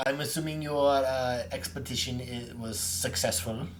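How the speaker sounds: lightly voiced stately old professor; a hint of a learned scholar. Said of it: "I gotta get my professor voice".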